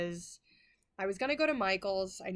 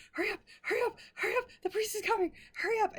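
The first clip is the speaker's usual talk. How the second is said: frantic urging; 5 dB louder, much faster than usual. Retold or imitated. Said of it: "And I'm going".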